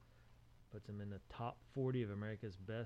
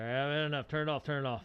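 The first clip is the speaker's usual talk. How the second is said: louder, higher acted pleading; mock fed-up protest; 4 semitones higher, 8 dB louder than usual. Fed-up viewer begging to shut off the show, mock protest. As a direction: play a viewer who can't take it.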